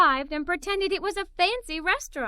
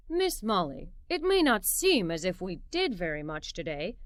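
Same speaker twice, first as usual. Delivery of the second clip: smiling father; 4 semitones lower than usual. A narrator's reading. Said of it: "my father said with a smile".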